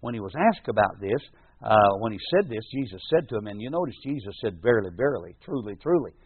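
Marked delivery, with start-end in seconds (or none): 4.6-6.1 Verily, verily said twice, each one leaned on; solemn doubled emphasis on Verily, verily, truly, truly; double emphasis. Shown as a demonstration. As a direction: stress both Verily and both truly. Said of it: "He speaks that with a, a double emphasis".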